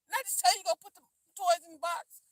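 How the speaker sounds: put-on a father scolding a child who ignored him; stern parent. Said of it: "You're just like".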